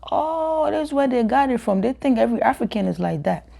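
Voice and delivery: high, surprised realization. Retold or imitated. Girl realizing where the stereotype came from, high surprised. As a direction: let it dawn on you. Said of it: "I was like".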